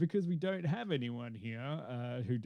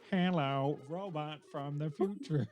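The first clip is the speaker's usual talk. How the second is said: slow, lightly robotic greeting; a touch of sci-fi robot; slower than usual. Pretend. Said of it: "distorted and robotic".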